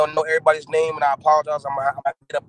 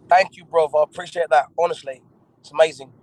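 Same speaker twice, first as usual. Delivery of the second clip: put-on American putting on an English accent. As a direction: thank him in a playful imitation English accent. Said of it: "it's annoying when, when Americans do it".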